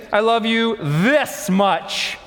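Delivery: slow, proud little bunny stretching each word; a child showing off how much; lightly voiced bunny child, slow and proud; baby bunny. Baby bunny's final boast.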